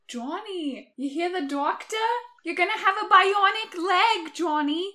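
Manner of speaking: mom voice. Acted. Mom speaks in sketch.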